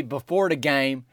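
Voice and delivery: "before" drawn out and emphasized; stress on BEFORE. Real, not acted. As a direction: lean hard on "before". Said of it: "emphasis on the word before".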